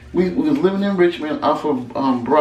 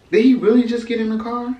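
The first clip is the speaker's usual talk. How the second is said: stunned disbelief; 7 semitones higher, faster than usual. Retold or imitated. Shocked he left with her.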